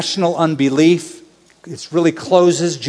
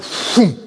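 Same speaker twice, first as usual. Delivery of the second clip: imitated whoosh; 2 semitones higher than usual. Imitates heads turning sharply.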